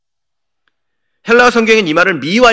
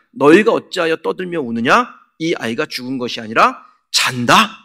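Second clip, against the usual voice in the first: mildly raised preacher's voice; retold loud proclamation. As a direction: lightly act out Jesus calling to the mourners. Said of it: "큰 소리로 외칩니다".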